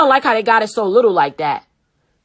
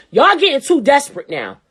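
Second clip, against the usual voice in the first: mock Italian voice for a scolding. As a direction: put on a light Italian accent. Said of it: "I'm gotta put my Italian voice on".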